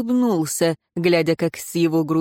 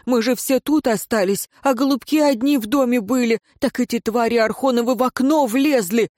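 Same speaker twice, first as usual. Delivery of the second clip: a distraught father begging for help; frantic peasant; 4 semitones higher than usual. Acted. The peasant frantically begs the advisor to save his kin.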